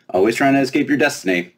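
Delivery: put-on high, bright-eyed fairy girl, teasing. Fairy princess quizzing the giant girl, high and playful.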